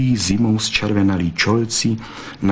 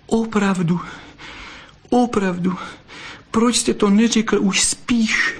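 much higher, ending in a breathless whisper; blurted out; 13 semitones higher than usual. A narrator's reading. Moved vixen blurting out her question to the fox, overcome.

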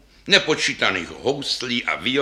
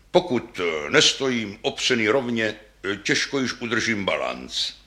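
put-on low hesitant old instrument; lightly voiced old double bass with ums; deep old bass. Old bass explains his balance, mildly deep and hesitant. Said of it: "hlubokým hlasem basa".

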